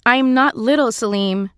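insist, standing her ground; firmly. A narrator's reading. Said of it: "she says firmly".

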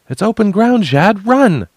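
high, loud urgent yell; urgent shout. Acted. Urging Jad to flee the open deck, high loud yell. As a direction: shout it to get him running now.

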